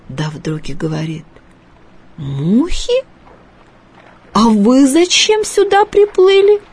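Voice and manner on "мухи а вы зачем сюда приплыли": suspicious fish. A narrator's reading. Fish suddenly turns on boy.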